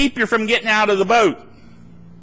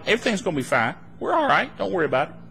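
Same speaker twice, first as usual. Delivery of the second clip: softer, unbothered reassurance; calm reassurance; 2 semitones lower, 6 dB quieter, much faster than usual. Acted. Believer calming the upset critics, soft reassurance. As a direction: gently wave the worry away. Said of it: "you're the one standing there going".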